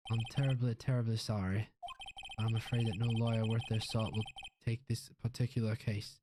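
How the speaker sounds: lightly Southern pompous lawyer; put-on Southern gentleman refusing; dismissive lawyer. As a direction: brush off the young caller.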